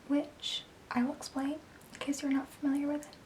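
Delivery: ASMR whisper. Real, not acted. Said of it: "my A S M R voice".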